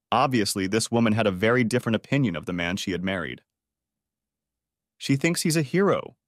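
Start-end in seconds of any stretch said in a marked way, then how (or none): 5.0-6.2 high, wondering disbelief; a marveling whisper of surprise. A narrator's reading. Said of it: "Shannon marveled".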